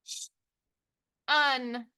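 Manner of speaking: "Sh", a pause, then "un"; sounded out. Shown as a demonstration. Teacher tapping out a morpheme, sounded out. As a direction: split "Sh-, un" into separate sounds. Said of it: "think about that shun".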